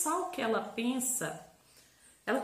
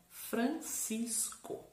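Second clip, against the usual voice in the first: FRANCISCO slow and softer, in three parts; quiet, drawn-out syllables of Francisco; 6 dB quieter, much slower than usual. Shown as a demonstration. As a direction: read Francisco out slowly, Fran, cis, co. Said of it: "nós vamos partir em sílabas primeiro".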